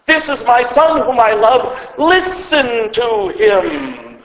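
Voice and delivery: lightly voiced God, slowing markedly on the command; deliberate heavenly pronouncement. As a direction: proclaim it as the Father, stretching out the final words. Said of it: "same voice, almost same words".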